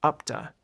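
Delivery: "up to" linked, the O said like "uh"; linked, reduced vowel. Shown as a demonstration. English teacher shows learners the reduced sound, linked "upta". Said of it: "sounds more like "uh".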